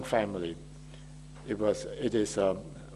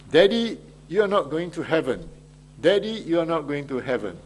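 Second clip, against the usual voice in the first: put-on child's accusation; 3 semitones higher than usual. Child's voice quoted in sermon title.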